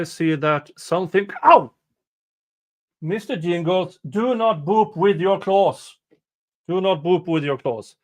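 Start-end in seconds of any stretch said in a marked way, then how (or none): 1.4-1.7 sudden high yelp of pain; sharp pained ow. Real, not acted. Streamer clawed by the cat, startled yelp. 3.0-8.0 higher, measured telling-off, easing slightly; scolding a pet. Real, not acted. Streamer to Mister Jingles about claws, scolding.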